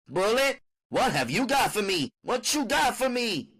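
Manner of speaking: high, eager pleading; high begging mother. Acted. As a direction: hop around begging for a treat. Mother begs Bullet.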